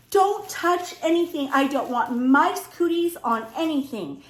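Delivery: panicky scolding. Retold or imitated. Wife fearing mice cooties warns husband, acted panicky scolding. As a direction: order them off, acting out the alarm.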